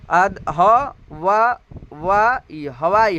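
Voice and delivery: धीरे धीरे "वा, वा, ई, हवाई" अलग अलग करके बोलना; "हवाई" को टुकड़ों में तोड़कर बोलो; sounding out why. Shown as a demonstration. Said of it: "आधा ह के तरह लिखते हैं". (शब्द को धीरे धीरे टुकड़ों में बोलना)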